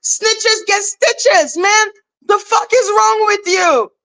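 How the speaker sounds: high, exasperated rant; retold outburst. Retelling yelling at a snitching friend, high and exasperated. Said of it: "I was like".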